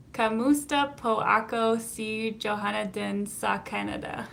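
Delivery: light Tagalog accent, lightly done; her Tagalog accent. Shown as a demonstration. Streamer greets her viewers in a light Tagalog accent. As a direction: try out basic Tagalog in her own voice. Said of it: "That's my Tagalog accent".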